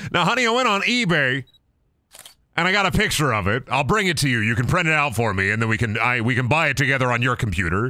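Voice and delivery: a hint of a fond old grandpa. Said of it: "This is how your grandpa takes it".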